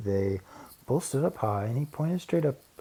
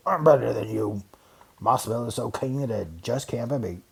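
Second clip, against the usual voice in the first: boasting; 3 semitones higher, 3 dB louder than usual. Acted. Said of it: "the bear boasted".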